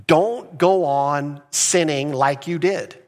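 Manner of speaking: slow, earnest voicing of Jesus; gentle command. Pastor voicing Jesus speaking to the healed man, slow and earnest. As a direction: say it slowly, with kind authority. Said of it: "Jesus is saying".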